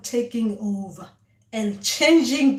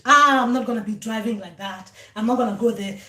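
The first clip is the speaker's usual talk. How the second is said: mild mock tantrum; 4 dB louder than usual. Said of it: "you throw tantrums on the road".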